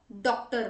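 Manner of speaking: "डॉक्टर" with an open British o, as in sock; short open o. Shown as a demonstration. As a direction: round the first vowel of "डॉक्टर" like sock. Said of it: "सोचें कि जैसे डॉ". ("डॉक्टर" में खुला ऑ)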